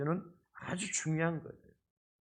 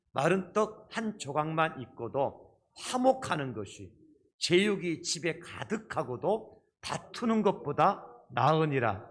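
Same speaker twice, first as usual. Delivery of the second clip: scripture reading; slower than usual. Acted. Congregation reads scripture aloud.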